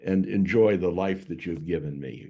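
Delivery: mock plea. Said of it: "a plea for mercy".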